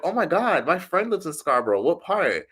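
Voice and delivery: high-pitched mock excitement; excited questioner. Stranger hearing a friend's hometown, mock excited. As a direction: play an eagerly curious stranger, pitch up.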